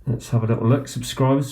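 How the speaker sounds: muffled behind a hand; talking through hand over mouth. Real, not acted. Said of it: "sorry, talking with my hand over my mouth".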